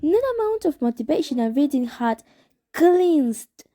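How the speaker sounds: story reading. A narrator's reading. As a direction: read the narrator's growing hatred with some heat. Reading novel chapter aloud.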